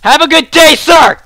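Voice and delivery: high, loud farewell; loud mock politeness. Gamer dismissing a beaten opponent, shouted polite send-off. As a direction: call it out high at the departing rival.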